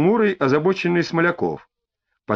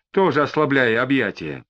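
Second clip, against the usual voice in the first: plain reading voice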